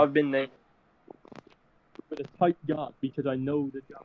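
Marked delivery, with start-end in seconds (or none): 2.1-4.0 muffled, gurgling mic sound; speaking as if submerged; underwater audio. Real, not acted. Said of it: "you went back underwater again".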